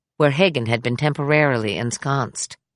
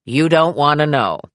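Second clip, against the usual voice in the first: laughing; 4 dB louder than usual. A narrator's reading. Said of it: "Claire laughed".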